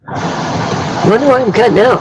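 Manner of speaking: slow garbled broken signal; like a call cutting out; robotic glitchy phone line. Real, not acted. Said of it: "she did sound like a robot".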